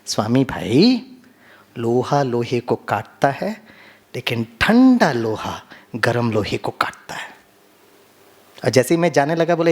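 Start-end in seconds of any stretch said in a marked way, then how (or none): 0.1-7.3 gently. Retold or imitated. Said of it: "बड़े प्यार से डॉक्टर ने समझाया".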